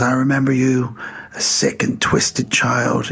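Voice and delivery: lightly voiced biblical Santa; slow right down on the last words; understated solemn imitation. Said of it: "come across as a bit biblical".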